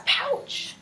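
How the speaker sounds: high, excited cry; really excited. A narrator's reading. Teacher reads joey's word as an example, really excited. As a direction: squeal it out as the excited joey. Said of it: "because he's really excited".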